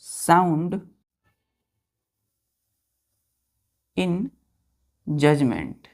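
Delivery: words dropped one at a time with long pauses; slow dictation. Shown as a demonstration. Teacher dictating a meaning to children, slow with long pauses. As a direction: give each word slowly so children can write it down. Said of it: "teacher dictating meaning with pauses".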